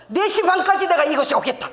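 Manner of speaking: 군대식 복창하듯 크게; loud recitation. Retold or imitated. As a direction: declare it like a soldier repeating orders. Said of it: "이 복창을 아버지가 열 번 하라는 거야".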